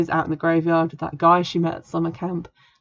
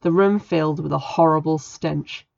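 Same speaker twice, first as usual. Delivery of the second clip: eerie storybook narration; dramatic story reading. A narrator's reading. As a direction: read it like a spooky tale over music. Reads spooky novel passage aloud.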